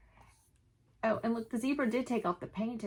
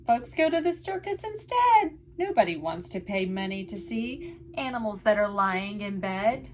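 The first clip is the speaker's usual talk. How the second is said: lively picture-book read-aloud in rhyme; sing-song storytime voice for little listeners; reading to children; 2 semitones higher, 3 dB louder than usual. A narrator's reading. Teacher reading a rhyming book to children, lively.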